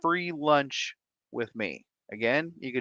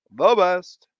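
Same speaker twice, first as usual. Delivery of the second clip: emphatic praise; 4 semitones higher, 9 dB louder than usual. Acted. Repeated louder.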